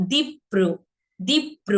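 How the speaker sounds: দীপ্র as "dip-pro", held on the p; দ্বিগুণ প. Shown as a demonstration. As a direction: teach দীপ্র with a doubled, split p. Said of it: "দুইবার হয়েছে কিন্তু". ("দীপ্র" বলো দীপ্-প্র)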